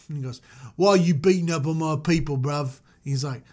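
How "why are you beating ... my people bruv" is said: lightly put-on British street accent; Christian Bale. Moses confronting the guard in a British street accent. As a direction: challenge him in mock British slang. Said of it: "I'm going with the Christian Bale".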